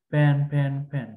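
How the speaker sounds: ফ্যান repeated with the same lip-popped p sound; all sounded alike. Shown as a demonstration. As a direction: rattle off ফ্যান with no true f. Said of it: "একই রকম হবে না".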